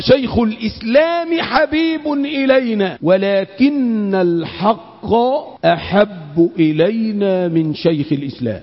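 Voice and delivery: slow, weighty quotation for learners to memorise; slow memorable recitation. Shown as a demonstration. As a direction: draw the saying out slowly, letting it fall away at the end. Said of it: "أعيدها تاني عشان تحفظ".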